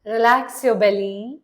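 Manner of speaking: measured meditation voice with long pauses; guided meditation. Acted. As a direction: guide the listener into relaxing, leaving long silences between phrases. (calm guided-meditation delivery)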